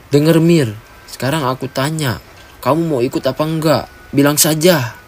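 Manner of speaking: insistent, impatient questioning; firm demand. Acted. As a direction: press hard for an answer. Acted tense confrontation, demanding answer.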